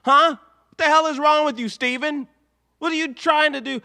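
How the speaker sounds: outraged fan scolding Steven; exasperated scolding. Real, not acted.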